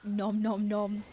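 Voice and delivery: slow nom nom chomping sounds. Pretend. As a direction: chomp it out slowly.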